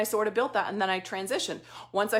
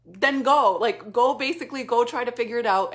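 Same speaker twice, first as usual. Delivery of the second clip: forceful coach; 7 dB louder than usual. Retold or imitated. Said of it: "she said to me".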